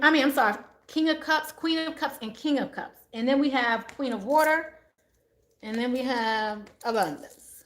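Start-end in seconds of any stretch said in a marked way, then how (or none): 5.6-7.6 breathy whispered card reveal; hushed as if sharing a secret. Real, not acted.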